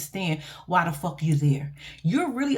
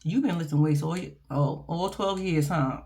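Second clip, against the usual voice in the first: hushed flirty aside; 5 semitones lower than usual. Retold or imitated. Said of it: "I said".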